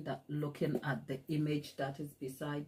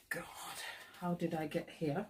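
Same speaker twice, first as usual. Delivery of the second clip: hushed mock despair under the breath; a mock-tragic whisper to herself; 9 dB quieter than usual. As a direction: whisper it like a private groan. Despairing aside in retold story.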